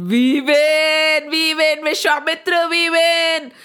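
loud gloating demon voices. A narrator's reading. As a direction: crow it, triumphant and mocking. Escaped demons gloat at the sage.

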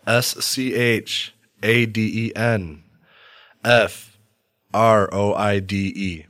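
letters named one by one; spelling it out. Shown as a demonstration. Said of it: "Spell that for me".

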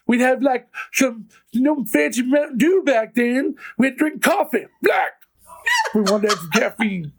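back in my day rant. Acted. Old man rant continues.

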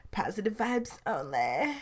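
reset with fresh energy; upbeat intro. Shown as a demonstration. Host restarting the show intro, upbeat and loud. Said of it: "let's try this again".

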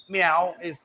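a light cat meow; imitating meow. Shown as a demonstration. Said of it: "So, like, Mangan, like".

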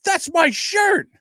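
high, slow indignant complaint; a hint of a wronged cousin; cousin upset. Cousin protesting his shirt was used, mildly upset. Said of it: "He goes".

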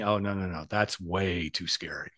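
hammed-up fear of being seen; mock scared. Mocking men who fear showing the real self, in hushed mock dread.

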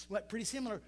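normal talking voice

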